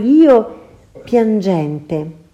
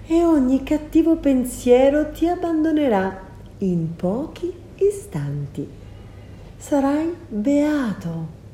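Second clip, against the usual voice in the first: soft, coaxing sorceress; seductive offer; 3 semitones higher, 4 dB quieter than usual. Acted. Circe offering the guest her golden cup, soft and coaxing. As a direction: tempt him gently to drink.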